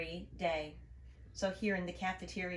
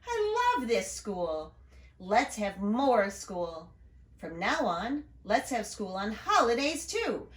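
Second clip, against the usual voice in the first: proud principal. Acted. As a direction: savour each word of the big announcement. Principal announces holiday school.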